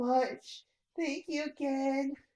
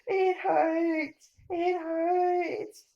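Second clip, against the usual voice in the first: crying in pain; 4 semitones higher, much slower than usual. Acted. Trapped child in pain.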